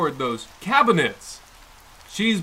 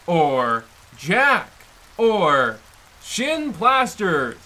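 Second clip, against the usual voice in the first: savoring each word; 4 semitones lower, slower than usual. Acted. Slowly listing slang for money.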